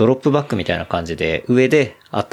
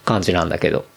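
talking between sips of a drink; a drink in hand while talking; while sipping a drink; 4 semitones lower than usual. Real, not acted. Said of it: "ちょっと飲みながら収録". (飲みながら話す)

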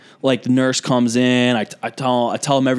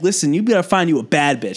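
Southern nurse giving blunt advice; imitated Southern nurse; southern accent; 3 semitones higher than usual. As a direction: advise with a sassy Southern twang. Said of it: "southern accent".

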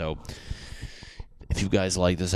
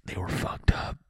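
voiceless mock-weepy complaint; badly faked tearful protest; mock crying. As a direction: pretend to complain through tears, voice mostly gone. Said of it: "Dude, just crying".

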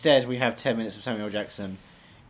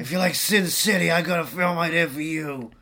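movie trailer voice; 6 semitones higher, 7 dB louder than usual. Pretend. Mock trailer pitch voice.

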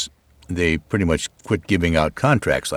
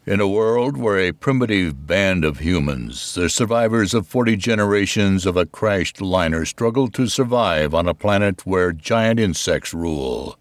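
movie trailer voice. Shown as a demonstration. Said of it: "give us your best movie, movie trailer in a world".

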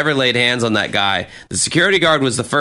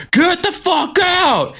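much higher, slow, imitating a bouncer's yell; mock yelling; slower than usual. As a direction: drag out a mock yell at Mike. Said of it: "and he's like".

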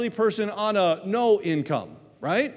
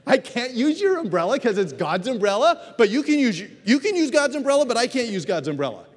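puzzled retort; 4 semitones higher than usual. Acted. Pastor acting a confused retort.

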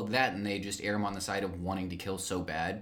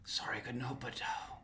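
soft spoken; 6 dB quieter than usual. Retold or imitated. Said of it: "he's like".

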